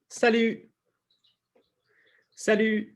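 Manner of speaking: "salut" said high with lips pushed forward. Shown as a demonstration. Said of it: "bring your lips forward on that".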